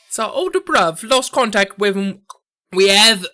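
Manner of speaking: attempted Cockney accent. Mobster retelling the lost older bruv, effortful Cockney accent. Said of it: "It's so hard".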